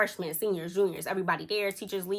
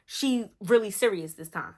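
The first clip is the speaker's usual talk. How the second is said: hopeful; 4 semitones higher than usual. Retold or imitated. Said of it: "I was happy because I'm like".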